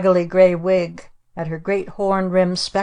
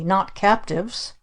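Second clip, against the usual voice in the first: slow protest; slower than usual. Acted. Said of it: "protested my father".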